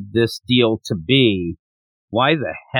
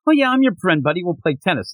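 fake friendly; 4 semitones higher than usual. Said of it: "he switched right into that mode".

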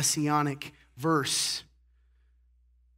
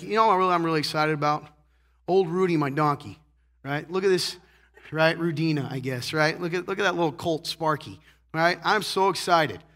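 excited farmer. Pretend. Farmer Joe excited about his donkeys, mock eager. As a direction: play the proud farmer showing off his donkeys. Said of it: "you're Farmer Joe".

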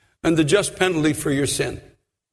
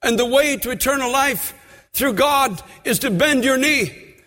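preaching at full force; 6 semitones higher than usual. Acted. Preacher exhorting the congregation to repent, full force. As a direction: drive it home from the pulpit.

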